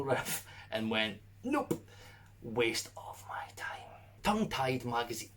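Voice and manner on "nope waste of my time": dismissive brush-off. Retold or imitated. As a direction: brush it off like a bored reviewer. Dismissive reviewer quote.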